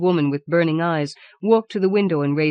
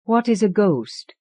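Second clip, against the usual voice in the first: "What is a ghost?" louder, energetic; tingling energy; 5 semitones higher, 5 dB louder than usual. Acted. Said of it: "said with tingling energy".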